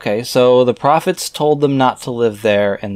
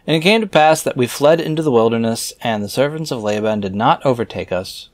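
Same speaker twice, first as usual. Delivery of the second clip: raised, measured reading voice; scripture reading. Acted. Reader reciting scripture verses aloud in a solemn reading voice. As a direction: read the old verses out with solemn weight.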